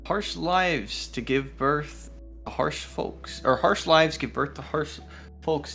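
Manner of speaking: measured story-reading delivery; storybook narration; game master reading. Acted. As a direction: read the villager's lore out evenly, phrase by phrase. Game master reads the woman's lines.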